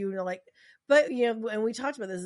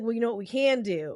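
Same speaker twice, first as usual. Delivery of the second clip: usual speaking voice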